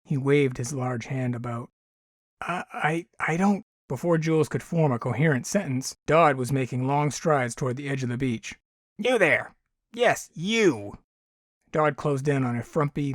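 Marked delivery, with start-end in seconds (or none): 2.4-3.6 high, stammering and scared; frightened stammer. Acted. Terrified teen stammers. 9.0-11.0 sharp, high call across the beach. Acted. Alien calls out sternly.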